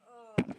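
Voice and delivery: strained grunt; effort grunt. Real, not acted. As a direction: grunt while lifting. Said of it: "Sorry for all the weird grunting".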